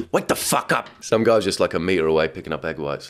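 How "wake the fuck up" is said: mock catchphrase. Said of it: "there's his saying".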